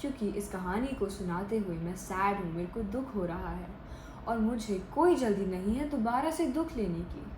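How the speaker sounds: demonstrated sadness, softly understated; sad. Shown as a demonstration. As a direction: tell it reluctantly, in no hurry. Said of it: "मैं एकदम से धीरे और कम आवाज़ में बोल रही हूँ".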